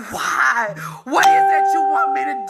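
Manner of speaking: real tears, voice breaking as she pleads; crying out to God, half shouting through tears. Real, not acted. Tearful plea to God.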